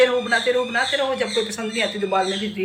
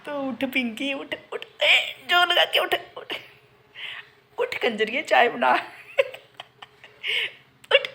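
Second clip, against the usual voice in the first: mock self-scolding; 2 semitones higher than usual. Urging herself out of bed.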